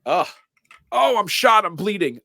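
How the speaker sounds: high, hammed-up pained whine; mock wounded caller. A pretend shot caller begs the dispatcher, hammed-up high pain. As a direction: play a hurt caller way up high.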